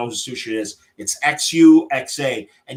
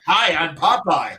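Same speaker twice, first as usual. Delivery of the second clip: Popeye impression; 3 semitones higher than usual. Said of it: "he talks like this".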